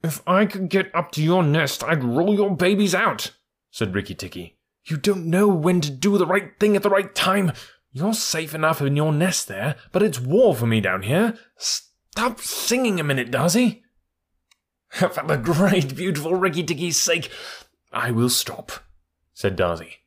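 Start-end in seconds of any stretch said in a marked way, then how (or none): 0.0-13.8 high, brisk and impatient; impatient mongoose. Acted. Rikki speaks to Darzi. 14.9-18.7 high, chirpy bird voice, proud and excited; a tiny bird bragging; boastful little bird. Acted. Darzi answers.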